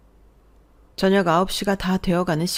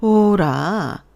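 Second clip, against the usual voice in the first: menacing realization. Acted. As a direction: drag out the first word, then accuse. Mother turns on daughter-in-law.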